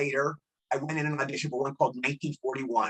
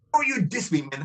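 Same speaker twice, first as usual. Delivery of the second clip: scary gang member; 3 semitones higher than usual. Retold or imitated. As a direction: lightly imitate a menacing gangbanger. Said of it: "He said it in the scariest voice".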